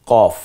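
কফ said deep from the back of the tongue; a throaty, deep কফ; deep qaf. Shown as a demonstration. Teacher showing learners the qaf sound, deep from the throat. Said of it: "একটু গম্ভীর আওয়াজে".

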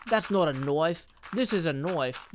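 badly faked Australian movie quote; hammed-up, wobbly Australian accent; attempted Australian accent. Streamer practising Pearl's accent on a film line, faked Australian. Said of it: "I can't do an Australian accent".

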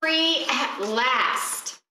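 very slow, savoured triumph; joyful relief. A narrator's reading. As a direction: stretch it out in relief. Children escape witch.

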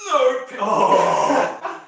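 loud, high shout mid-match; high-pitched match outcry; excited shout. Real, not acted. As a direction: burst out loudly at a near pin. Shouting during arm-wrestling match.

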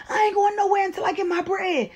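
very high, stubborn mock yell; insistent yelling. Woman refusing to leave unpaid, insistent yelling. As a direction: wail it out in a high voice. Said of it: "I keep on yelling".

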